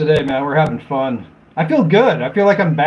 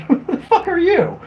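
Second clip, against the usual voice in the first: higher, laughing mock outrage; laughing retort; 11 semitones higher than usual. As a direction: blurt it out through laughter. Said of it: "I'm like".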